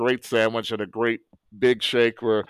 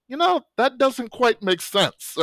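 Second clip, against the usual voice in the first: skeptical, drawn out high; doubtful, high and slow; 12 semitones higher, slower than usual. Retold or imitated. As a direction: raise the pitch, doubtful and slow. Quoting doubtful student, high slow.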